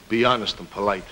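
very low, soft muttering; scornful, low-pitched aside; bitter grumble. Acted. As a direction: grumble it sourly to yourself. Bitterly echoes his old ideals.

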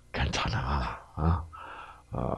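soft reassurance. Acted. Mother reassuring child softly.

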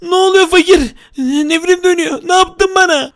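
alarmed cry as the laser hits; a mock panicked wail. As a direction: cry out in fright. Being shrunk by laser.

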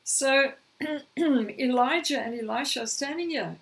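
croaky voice, clearing throat. Real, not acted. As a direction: push through a croaky throat. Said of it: "sound like a croaky old frog".

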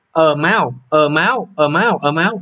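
"máu" repeated with a rising stress; stress demo. Shown as a demonstration. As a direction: hammer home the stressed syllable máu. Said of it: "dấu huyền rồi xong mới đến máu". (lặp lại nhấn vào máu)

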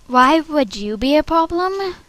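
lightly puzzled, pitched a little up; questioning. Acted. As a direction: ask it in a lifted voice. Audition take, brighter first read.

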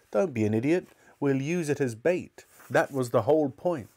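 irritated, emphatic telling-off; exasperated cook. Acted. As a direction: scold as the impatient cook. Cook rebukes the narrator in story.

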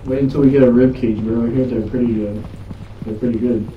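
loud excited banter. Real, not acted.

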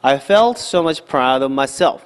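"of" run into "proud", barely heard; unstressed "of". Shown as a demonstration. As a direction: swallow "of" after "proud" without stress. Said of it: "강세도 없어요. 그래서 발음할 때".

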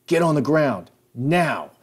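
high, loud command; police shout. Retold or imitated. Supervisor cop ordering the tanner down, shout. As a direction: order them down hard.

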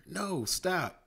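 high, loud pleading through laughter; laughing plea. Acted. Manny begging friends not to soak him, laughing. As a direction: beg while laughing. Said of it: "laughing hard".

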